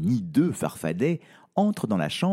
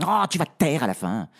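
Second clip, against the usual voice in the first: fast, irritated snap; impatient snap; 3 semitones higher, faster than usual. Acted. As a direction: cut her off sharply. Princess snapping.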